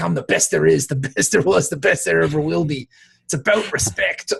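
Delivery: a lightly voiced, punchy wrestler promo; quoting the wrestler's catchphrase, a hint of promo voice; Bret Hart catchphrase. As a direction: deliver it like a wrestler cutting a promo, only lightly. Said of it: "Brett the Hitman Hart used to say".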